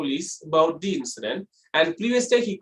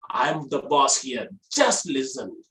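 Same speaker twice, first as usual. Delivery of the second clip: low, slow boss voice; low-pitched command; 5 semitones lower, slower than usual. Shown as a demonstration. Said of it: "use the low pitch so that you will look like a boss".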